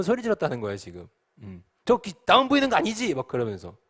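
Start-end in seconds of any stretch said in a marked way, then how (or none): 1.8-3.1 high, loud, stammered question; startled alarm. Acted. Shocked disciple asking if others see it, startled alarm. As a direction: blurt it out in acted shock. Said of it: "너무 놀랐다는 거죠".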